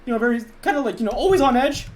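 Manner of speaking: anxious voice, always on edge; high, loud and jittery; Toby. Shown as a demonstration. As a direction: talk like a very nervous, on-edge person. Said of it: "a very anxiety kind of person".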